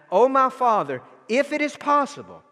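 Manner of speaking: pleading prayer. Acted. Preacher voicing Jesus' prayer again.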